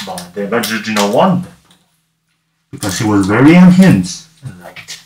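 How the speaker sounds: lilting once-upon-a-time storytelling; storybook narration. Pretend. Streamer tells the tale of little Deadpool, lilting storybook narration. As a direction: narrate it like a children's tale with swooping emphasis.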